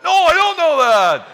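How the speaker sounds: high, loud denial bursting with laughter; laughing mock denial. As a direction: squeal it out, laughing. Son's laughing fake denial.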